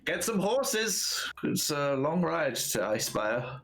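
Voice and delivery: slow, drawn-out order; lightly voiced leader calling out; slow commanding voice. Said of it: "Alexi goes".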